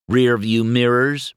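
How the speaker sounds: simply. A narrator's reading. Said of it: "Mater said simply".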